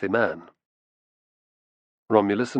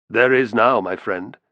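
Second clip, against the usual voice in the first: smug; 3 dB louder, slower than usual. Acted. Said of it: "replied Hero smugly".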